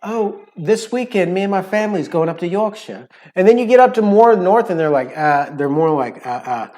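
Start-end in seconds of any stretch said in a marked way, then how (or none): 0.0-3.1 put-on English accent from up the country; northern English accent. A local telling of family weekend plans, northern English accent. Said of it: "because they say".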